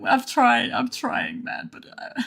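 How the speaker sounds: high, squeaky talking through laughter; helpless laughter. Real, not acted. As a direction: give up in breathless, despairing giggles. Laughing helplessly over lost deposit.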